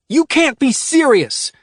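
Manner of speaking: high, loud outraged cry; disbelieving shout. A narrator's reading. Ruby shouting at Adrian in shock. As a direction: shout it at him, stunned. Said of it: "Ruby screamed".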